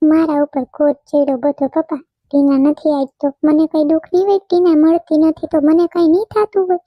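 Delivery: a son's anguished questions to his father; distressed pleading. Acted. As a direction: pour out hurt, voice climbing. Son pleads with father, upset.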